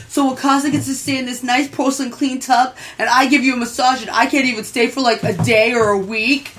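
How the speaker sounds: lightly acted mopey complaint; mock mopey. Octopus guy asking to stay too, mildly mopey. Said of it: "he gets all mopey".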